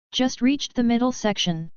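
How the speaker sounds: flat, mechanical machine voice; robot voice. Acted. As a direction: speak like an onboard computer. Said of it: "A mechanical voice finished".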